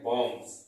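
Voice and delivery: बॉम्ब्स ending in an s sound; common mispronunciation. Shown as a demonstration. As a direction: say बॉम्ब्स the mistaken way, with final s. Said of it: "लोग गलती बोलते हैं".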